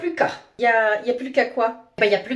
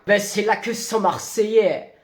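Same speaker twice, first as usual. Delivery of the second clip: put-on slow, low Marseille accent; hammed-up southern French Marseille accent; bad Marseille accent; 4 semitones lower, slower than usual. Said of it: "tu le fais vraiment très mal".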